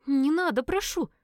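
high-voiced embarrassed young woman; Элис embarrassed plea. A narrator's reading. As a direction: beg her to stop, flustered.

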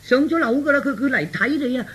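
excited, stammering warning; urgent alarm. Acted. Father warning son the visitor is coming, flustered urgency. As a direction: blurt out the news in a fluster.

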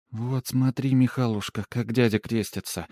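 a hint of a reedy peasant mother; lightly voiced mother pointing things out to her boy; mild thin-voiced village mother; thin woman's voice. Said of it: "тоненький голосок какой-то бабы".

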